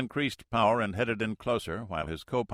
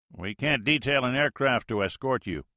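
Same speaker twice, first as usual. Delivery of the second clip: radio pilot; 5 semitones higher, 5 dB louder than usual. Acted.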